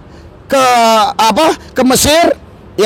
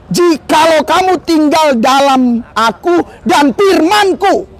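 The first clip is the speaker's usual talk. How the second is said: slow scripture reading; 3 semitones higher, slower than usual. Acted. Preacher reads Jesus's words.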